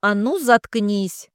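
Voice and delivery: barking order. Acted. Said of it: "рявкнул на цыганку сержант".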